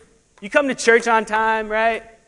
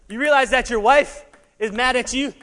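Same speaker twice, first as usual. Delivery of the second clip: ordinary talk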